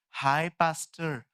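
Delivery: slow, drawn-out hi; mock casual sister. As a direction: imitate a breezy churchgoer. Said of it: "क्या?". (बहन की नकल में धीमा हाय)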